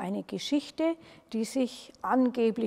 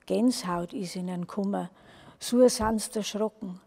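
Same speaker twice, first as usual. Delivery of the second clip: lively dialect storytelling; folk tale narration. A narrator's reading. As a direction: read it aloud like a village yarn. (lebendig vorgelesene Mundartgeschichte)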